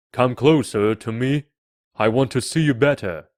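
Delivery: loud, proud king's voice; commanding king. A narrator's reading.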